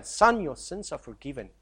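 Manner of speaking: soft, weighty "Son, your sins are forgiven", each word given its due; tender, grave forgiveness; solemn. Shown as a demonstration. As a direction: speak it as words that cost a life. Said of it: "For Jesus to say for this young man".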